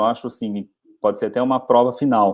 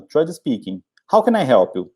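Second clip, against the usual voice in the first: receptionist voice. Shown as a demonstration. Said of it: "Aí ele fala o nome dele".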